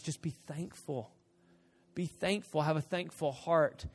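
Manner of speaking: soft, patient urging; quiet, kindly instruction; calm divine reply. Acted. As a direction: play God gently settling a tantrum. God's calm answer to demands.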